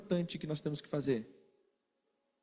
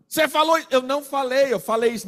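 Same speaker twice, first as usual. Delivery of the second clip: mock bickering; 6 semitones higher, 6 dB louder, faster than usual. Acted quarrel, accusing and denying.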